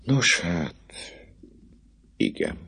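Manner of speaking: soft, resigned give-in; a hushed, gentle yes; strange gentleness. Acted. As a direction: let it go quietly, almost tenderly. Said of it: "mondta végül különös szelídséggel".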